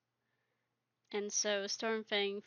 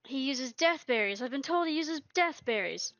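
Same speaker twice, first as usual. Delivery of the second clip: angry; 3 semitones higher, 3 dB louder than usual. Retold or imitated. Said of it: "suddenly just hissing, and he's angry".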